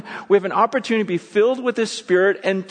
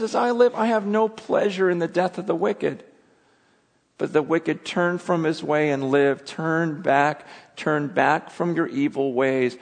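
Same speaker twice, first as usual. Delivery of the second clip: hushed, heartfelt reading of the verse; tender plea; 4 semitones lower, slower than usual. Acted. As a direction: let it land gently, as a father's plea. Quiet rereading of God's plea.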